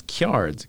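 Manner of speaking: "Kjards" as "kyards", a y after the K; written dialect pronunciation. Shown as a demonstration. Host sounding out the book's spelling, "Kjards" as "kyards". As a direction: say "Kjards" with a y-glide. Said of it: "he's got this accent that's written down".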